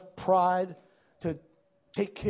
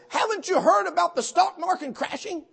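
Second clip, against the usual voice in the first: imitated bawling; 11 semitones higher, 6 dB louder than usual. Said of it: "He's bawling".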